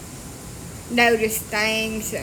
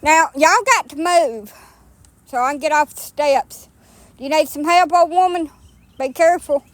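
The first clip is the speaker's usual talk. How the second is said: higher, louder coaxing; coaxing dogs; 4 semitones higher, 3 dB louder than usual. Real, not acted. Coaxing her old dog off the muddy steps, raised and fussing.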